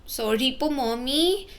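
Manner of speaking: put-on small, high child's voice; tearful child to her mother; tearful apology. A narrator's reading. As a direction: apologise like a crying little girl. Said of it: "umiiyak na sabi nito".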